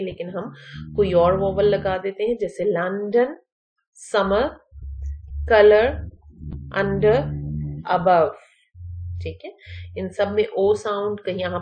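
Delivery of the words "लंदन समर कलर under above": "लंदन", "समर", "कलर" with a clear uh in the first syllable; word by word, "under" and "above" with a relaxed uh; UH sound. Shown as a demonstration. Teacher correcting commonly mispronounced words, clear uh sound. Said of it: "इसको अ sound के साथ पढ़ना है".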